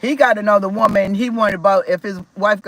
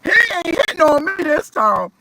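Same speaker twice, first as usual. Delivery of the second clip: fierce; 4 semitones higher, faster than usual. Retold or imitated. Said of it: "And I was like".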